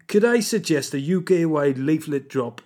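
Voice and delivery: attempted Geordie accent, slipping; shaky Geordie accent. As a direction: have a wobbly go at a Geordie accent. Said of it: "do this in a Geordie accent".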